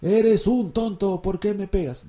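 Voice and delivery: mock over-careful student comeback; slow-motion reply. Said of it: "todo eso en cámara lenta en mi mente".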